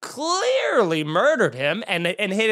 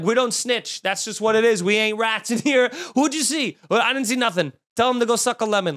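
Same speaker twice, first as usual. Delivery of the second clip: Boston locals; 4 semitones higher than usual. Acted. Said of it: "What is with you people in Boston".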